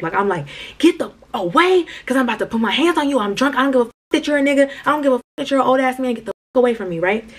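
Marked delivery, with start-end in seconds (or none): 0.8-7.0 put-on higher, fast drunk yell at him; retold yelling. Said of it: "I'm yelling on the strip".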